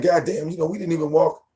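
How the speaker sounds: mild mock exasperation; exasperated. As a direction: act fed up with her. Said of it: "I'm like".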